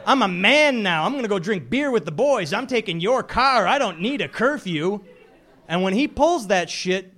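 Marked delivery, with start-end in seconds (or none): 0.1-5.0 put-on teen brat. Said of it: "Telling you".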